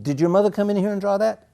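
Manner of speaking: high, loud incredulous question; disbelieving nurse. Retold or imitated. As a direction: she can't believe a kid did this. Nurse can't believe the boy.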